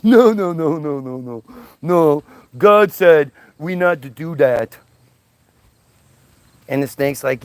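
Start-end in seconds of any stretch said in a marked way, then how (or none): 0.0-4.8 cartoon vulture shaking its head; hammed-up cartoon vulture. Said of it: "that vulture on Bugs Bunny".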